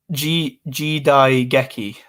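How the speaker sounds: slow, careful "G Dai Geki"; corrected pronunciation. Shown as a demonstration. Streamer tries a viewer's correction, careful hard G in "Geki". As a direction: sound out "G Dai Geki" with the G of gecko. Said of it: "The G is pronounced like gecko".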